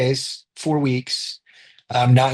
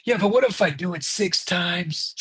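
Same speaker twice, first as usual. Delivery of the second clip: mock worried protest, higher-pitched; terrified, crying; 6 semitones higher, 4 dB quieter than usual. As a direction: imitate a scared, tearful objection. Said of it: "why do you sound all terrified".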